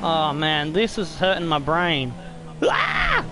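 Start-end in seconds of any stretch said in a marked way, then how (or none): 2.6-3.2 sudden high-pitched scared yelp; startled yelp. Real, not acted. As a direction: yelp out in real fright. Terrifying onboard camera lap.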